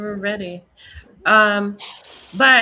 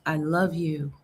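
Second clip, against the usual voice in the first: lower, softer, tender quote; tender parental voice; 5 semitones lower, 5 dB quieter than usual. Retold or imitated. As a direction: gently voice a loving parent. Voicing kind parental words.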